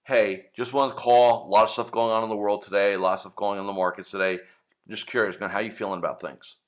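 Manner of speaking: unhurried caring question to a client; easy check-in call. Shown as a demonstration. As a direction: ask it like a friend just calling in.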